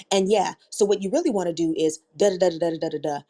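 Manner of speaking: mock fast dismissive patter; imitating rushed interjection. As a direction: rattle it off like someone barrelling past the last speaker. Imitating speaker who barrels past others.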